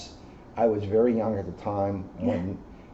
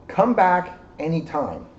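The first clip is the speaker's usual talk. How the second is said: happy invitation; 6 semitones higher than usual. Acted. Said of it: "She sighed with happiness".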